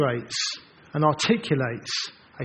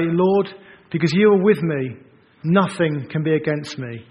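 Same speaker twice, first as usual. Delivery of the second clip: louder, triumphant declaration; bold faithful reply; 4 dB louder than usual. Pretend. Preacher voicing a fearless Moses, loud and sure. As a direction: stand tall and proclaim it.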